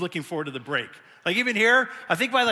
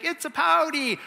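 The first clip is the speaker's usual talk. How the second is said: teasing dad; 9 semitones higher than usual. Retold or imitated. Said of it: "he's like".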